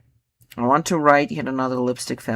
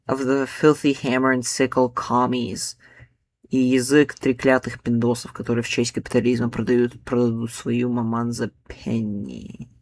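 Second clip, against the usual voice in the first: poem reading. Shown as a demonstration. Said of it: "so this one goes like".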